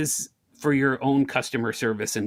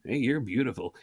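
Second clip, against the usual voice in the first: creepy flirt; 3 semitones lower, 5 dB quieter than usual. Retold or imitated. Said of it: "Not creepy, like".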